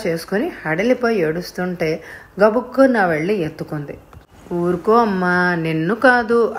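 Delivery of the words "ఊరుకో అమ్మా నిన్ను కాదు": put-on soothing a child. A narrator's reading. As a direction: gently hush the crying boy. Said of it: "అంటూ ఊరుకోబెట్టసాగింది". (ఓదార్పుగా ఊరుకోబెట్టడం)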